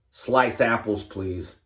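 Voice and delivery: lightly voiced customer politely ordering; a hint of a customer at the counter; mock customer order. Customer at McDonald's ordering apple slices, lightly acted.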